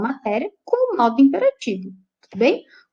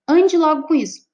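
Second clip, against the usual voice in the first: firm order, higher on the first word; hard command; 4 semitones higher, 3 dB louder than usual. Shown as a demonstration. Teacher showing how an order can sound, hard command. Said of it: "ela pode sair mais dura".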